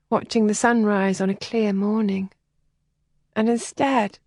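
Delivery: put-on a sheltered girl close to tears; upset young lady. Helen, wistful and upset.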